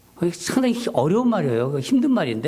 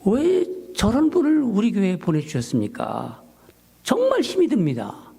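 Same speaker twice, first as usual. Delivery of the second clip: higher, pleading complaint to God; reenacted complaining prayer, raised pitch; arguing with God; 4 semitones higher than usual. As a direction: protest to God like a frustrated son. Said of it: "하나님한테 제가 이렇게 따지는 거예요".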